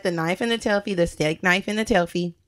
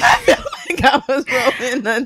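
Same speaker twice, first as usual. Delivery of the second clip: laughing; 4 semitones higher, 4 dB louder than usual. Real, not acted. Laughing at her own fear.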